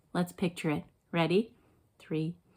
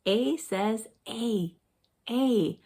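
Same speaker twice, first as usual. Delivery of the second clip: "A says A" stretched out very slowly; slow phonics; much slower than usual. Shown as a demonstration. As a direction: drag it out for the kids.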